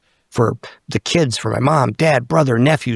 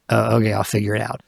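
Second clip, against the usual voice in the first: calm acceptance; 2 semitones lower, 4 dB quieter, faster than usual. Retold or imitated. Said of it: "Now I'm like".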